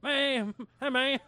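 high, loud Southern drawl imitation; poking fun with a Southern accent; mock Southern. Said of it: "progressively more southern".

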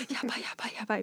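soft panicked muttering; quietly panicking to herself; panicked under breath. Retold or imitated. Panicking at register, inner voice.

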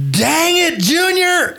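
mock angry outburst. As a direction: explode at Junior, hamming up the anger. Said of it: "And he gets really pissed".

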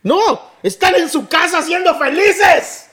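lento y sarcástico, más agudo y fuerte; la operadora se burla con calma; ironía burlona. Retold or imitated. (la operadora de emergencias contestando con sarcasmo)

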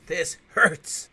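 high, loud, drawn-out groaning complaint; stabbed vampire whining at his attacker; hammed-up pain. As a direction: moan like a melodramatic stabbed vampire.

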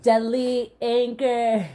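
slow, loud joking indignation; mock outrage. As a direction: declare it like a protest.

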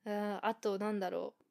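ordinary talk, nothing marked

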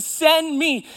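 high, loud, emphatic plea; impassioned cry. Acted. Isaiah answers God's call, crying out. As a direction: cry it out, volunteering. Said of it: "Isaiah cries".

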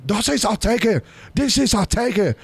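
high-pitched imitated Asian accent; mock accent of the Asian lady. Asian lady yelling at them over seats, mock high accent. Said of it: "responded to her in her accent".

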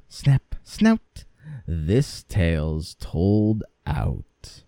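measured, emphatic folk-tale narration; storytelling. A narrator's reading. Narrator finishing the tale of the troll's defeat, slow-paced storytelling. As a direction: draw the tale out to its close.

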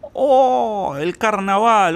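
high-pitched imitation of a gushing foreigner; mock excitement. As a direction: exclaim it like an impressed outsider, exaggerated. Imitating foreigners reacting to Brazil. (imitación de extranjero entusiasmado)

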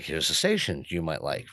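monotone assistant, no inflection; flat robot voice. Retold or imitated. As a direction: read it like a machine. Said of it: "No inflection".

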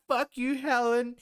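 high, loud, drawn-out yell at mum; hammed-up bogan tantrum, stretched and loud; mock angry son. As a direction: imitate a son going off at his mother. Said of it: "the son's gone off at his mother".

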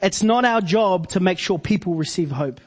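measured, deliberate restatement; slow, deliberate. Real, not acted. Preacher repeating the key line to the church, slow and deliberate. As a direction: spell it out slowly for the listeners. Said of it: "say that slowly again".

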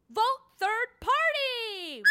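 high, slow campaign cry; drawn-out defiant cheer; defiant slogan shout. Acted. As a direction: stretch it out as a rallying call. Fed up, campaigns for neither.

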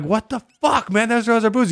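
high-pitched indignant protest; acted-out dismay; mock outrage. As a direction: imitate a stunned, high outcry. Acted outraged group reaction.

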